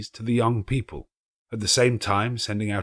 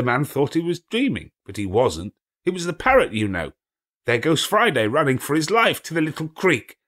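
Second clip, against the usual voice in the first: high, loud, gleeful; excited storytelling; 8 semitones higher, 5 dB louder than usual. A narrator's reading. Scrooge cheering on Friday, gleeful. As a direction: build to a hunting holler.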